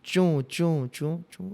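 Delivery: spaced-out squeaky footsteps; squeaky shoe sound. Retold or imitated. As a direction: imitate shoes squeaking step by step. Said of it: "कोई जूता पहन के नीचे घर में घूम रहा है".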